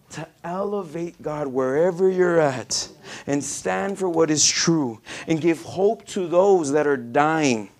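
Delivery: forceful exhortation to the congregation; fervent preaching. Real, not acted. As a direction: preach it out, hammering the key words.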